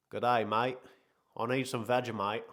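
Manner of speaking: badly faked Aussie, a touch bigger; horrible Australian accent. Streamer playing an Australian for the chat, horrible Australian accent. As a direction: put on a clumsy Australian accent. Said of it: "That was a horrible accent".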